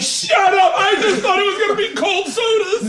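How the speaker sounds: high, loud laughing shout; laughing outburst. Real, not acted. Friend stunned by free food, shouting and laughing. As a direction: shout it through laughter in disbelief.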